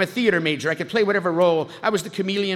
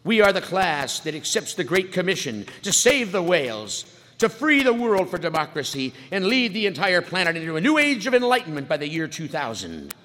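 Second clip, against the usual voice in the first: valedictorian speech. Retold or imitated. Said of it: "she says".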